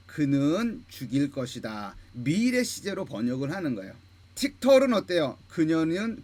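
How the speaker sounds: normal talking voice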